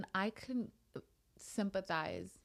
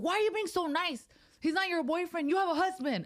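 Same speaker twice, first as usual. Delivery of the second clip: high, loud mock kid voice; teasing kids; 12 semitones higher, 6 dB louder than usual. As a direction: tease Mom like a nosy little son. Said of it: "And he's like".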